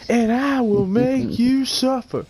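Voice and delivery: high, slow, loud villain threat; menacing villain voice. Pretend. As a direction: ham up a sinister threat. Villain voice answering the taunt.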